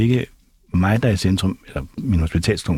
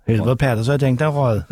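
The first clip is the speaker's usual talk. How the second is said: lightly put-on Bornholm accent, higher; Bornholm postman; 4 semitones higher than usual. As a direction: play a Bornholm postman with a laugh in the voice. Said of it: "som det bornholmske, øh, postbud".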